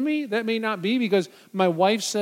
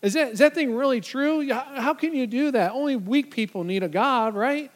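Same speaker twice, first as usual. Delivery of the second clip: mocking skeptic; 4 semitones higher than usual. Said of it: "has someone ever said to you".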